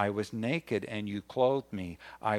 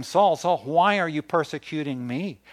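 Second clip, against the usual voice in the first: calling voice from heaven; 3 semitones higher, 6 dB louder than usual. Acted. Voice from heaven calls Saul.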